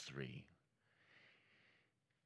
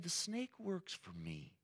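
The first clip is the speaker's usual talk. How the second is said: high, slow, softer reveal; God's casual revelation; 9 semitones higher, 6 dB quieter, slower than usual. Retold or imitated. God explaining the snake to Adam and Eve, slow casual reveal. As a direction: draw it out high and soft.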